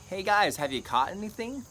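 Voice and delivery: high, loud holler from the shore; calling out. Retold or imitated. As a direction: call out to men far off on a boat. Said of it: "he calls out to them".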